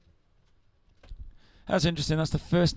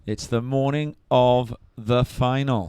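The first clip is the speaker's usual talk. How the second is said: slow, louder dramatic movie-line delivery; surf movie quote; 4 dB louder, slower than usual. Acted. Co-host answers with the surf movie line, slow and dramatic. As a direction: read it like an epic surf film trailer. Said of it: "Rob is quoting a canonical surf movie".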